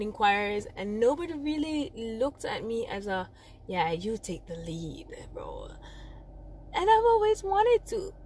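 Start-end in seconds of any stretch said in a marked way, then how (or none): 3.7-5.7 low, softer imagined quote, fading out; low offhand offer. Retold or imitated. Imagined choir leader offering the lead, low and quiet. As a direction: hand it over casually, dropping to a whisper.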